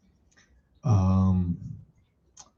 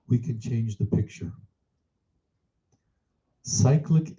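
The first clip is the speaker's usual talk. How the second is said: measured read-aloud. Acted. Teacher reading a contemplation on mind and meditation to students, measured read-aloud. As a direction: read it out phrase by phrase, letting each one settle.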